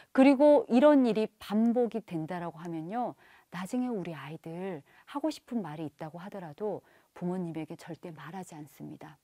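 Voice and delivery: ordinary delivery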